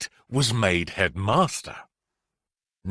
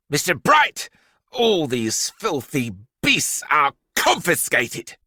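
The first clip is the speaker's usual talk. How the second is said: stern headmistress, a touch louder; bossy headmistress; 3 semitones higher, 4 dB louder than usual. Acted. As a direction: lay down the law to the teacher. Headmistress confiscating pets.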